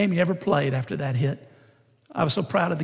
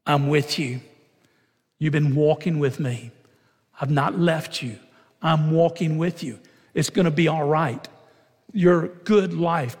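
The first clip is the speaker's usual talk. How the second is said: gentle whisper. Retold or imitated. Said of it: "He's gonna whisper in our ear".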